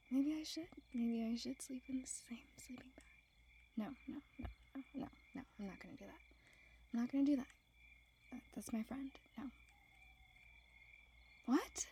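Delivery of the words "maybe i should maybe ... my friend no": hushed, flustered self-talk; quick, half-whispered private argument. Acted. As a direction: talk yourself down under your breath.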